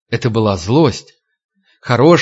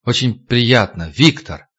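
awkward mumble. Acted. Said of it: "невпопад пробубнил".

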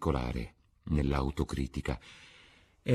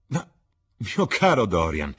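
astonished Lord Henry; 2 semitones higher, 6 dB louder than usual. Acted.

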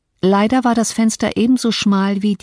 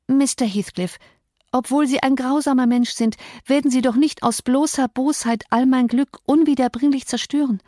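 put-on higher, begging girl's voice, close to tears; pleading young Cathy; 6 semitones higher than usual. Cathy begs her cruel uncle to let her go home, high and pleading. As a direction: beg him as a desperate young girl, voice pitched up.

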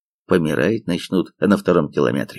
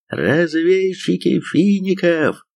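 raised shout over the guns; shouting over gunfire; 9 semitones higher, slower than usual. A narrator's reading. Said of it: "закричал сквозь разноголосый орудийный лай".

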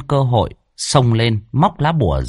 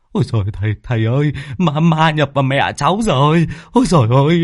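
put-on panicked boy; 4 semitones higher, faster than usual. A narrator's reading. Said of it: "thở hồng hộc".

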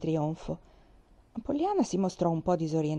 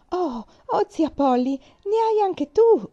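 acuta e più forte, tutta gioiosa; la bambina che balla davanti alla zia; grido felice; 10 semitones higher, 8 dB louder, slower than usual. A narrator's reading. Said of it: "gridò felice". (grido di gioia, ultime parole lente e acute)

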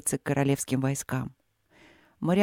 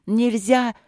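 desperate shout; 5 semitones higher than usual. Acted. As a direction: shout to stop him in despair. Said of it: "отчаянно закричала Василина".

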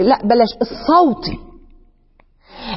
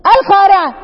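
striking call; 6 semitones higher, 4 dB louder than usual. Shown as a demonstration. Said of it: "يزيد المسألة غموضا".

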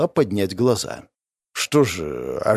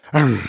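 snort. A narrator's reading. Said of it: "фыркнула она".

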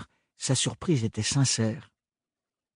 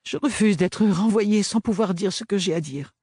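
more controlled voice; 8 semitones higher than usual. A narrator's reading. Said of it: "d'une voix plus maîtrisée".

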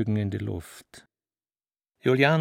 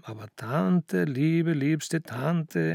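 apologetic; 3 semitones higher, much slower than usual. Acted. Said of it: "entschuldigte sich Baal".

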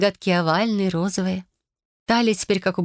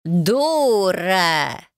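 mock bark. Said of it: "рявкнул, рыкнул".

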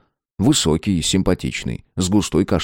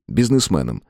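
ordinary delivery, nothing marked

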